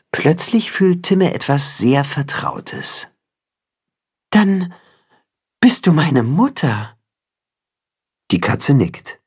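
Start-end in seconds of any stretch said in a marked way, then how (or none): 4.3-6.9 hesitant, moved question; dawning on him; wondering realisation. A narrator's reading. Chicken realises she is mother. (zögernd und berührt)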